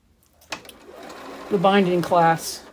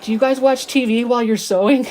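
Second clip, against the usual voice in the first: puzzled son-in-law; 5 semitones higher, 7 dB louder than usual. Retold or imitated. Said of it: "He was like".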